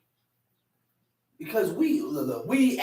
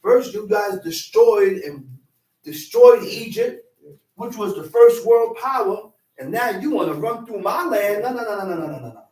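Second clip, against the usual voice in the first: indignant king refusing; 4 dB louder than usual. Acted. King refuses passage through land.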